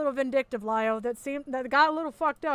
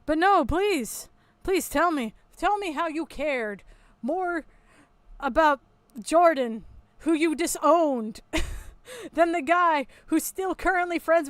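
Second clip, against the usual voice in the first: sarcastic; 3 semitones higher, 3 dB louder than usual. Acted. Sarcastic challenge.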